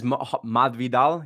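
Masvidal with a lisped th sound, Spanish style. Retold or imitated. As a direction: say Masvidal as Mathvidal, lisping the s. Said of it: "He says it with a lisp".

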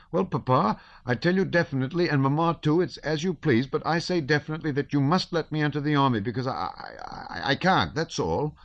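put-on cracking boy's voice, high and shrill, stumbling; teenage son begging his father to join the army, voice breaking; breaking adolescent voice. A narrator's reading. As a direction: blurt it out, voice cracking. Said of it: "in his breaking voice that was now deep and now shrill".

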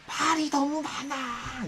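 slow, drawn-out groan of a complaint; weary complaint. Retold or imitated. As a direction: drag it out, fed up. Staff complaining about customer.

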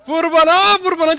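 high, loud quoted shout; mock yell. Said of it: "diye bağırdı az önce". (taklit ederek yüksek, tiz bağırma)

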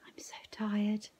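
tired unvoiced whisper, slow. A narrator's reading. Cameron to Nan, exhausted whisper. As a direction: breathe it out exhausted. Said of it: "I whispered".

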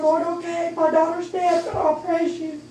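high-pitched plea, a touch tearful; retold tearful surrender. Grieving mother to the Lord, retold tearful surrender. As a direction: yield to God, imitating a crying prayer. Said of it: "speaking in tongues and just crying".

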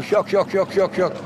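evenly repeated şak beats; struck bird notes. Shown as a demonstration. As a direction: imitate a finch striking its notes. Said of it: "Hadi yavrum bir daha vur". (vuruşlu saka taklidi)

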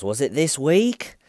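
high, loud, slow question; drawn-out, hammed-up disbelief; mock incredulity. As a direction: imitate a detective who can't believe it. Imitates detective's incredulous question.

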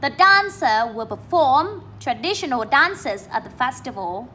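slow reading, DAN in dancer and FORM in perform stressed; teacher's model with dancer and perform picked out; model sentence reading. Shown as a demonstration. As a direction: read slowly, stressing DAN-cer and per-FORM. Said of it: "Các bạn nghe cô đọc lại".

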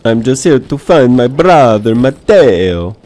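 put-on a quick try at an Italian accent. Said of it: "that was my Italian accent attempt".

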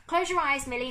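high, loud plea to Millie; urgent cry. Acted. Novak urging Millie not to look, crying out. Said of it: "Novak cried".

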